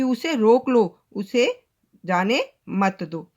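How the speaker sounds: "रोक लो" stressed, pause, then slow "जाने मत दो"; meaning spelled out. Shown as a demonstration. Teacher explains the reversed meaning to children, pausing before slow "जाने मत दो". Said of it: "अब यहाँ पर भाव ये हो जाता है".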